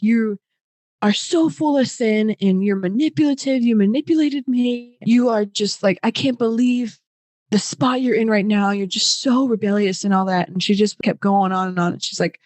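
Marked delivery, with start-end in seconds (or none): 0.0-10.5 higher mock accusing tirade; scolding Lacey. Retelling Lacey calling her sinful, higher mock rant. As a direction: play the outraged aunt, lightly.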